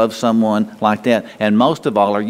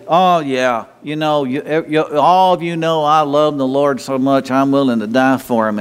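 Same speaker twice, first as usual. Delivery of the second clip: mock boastful. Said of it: "stand up here and say".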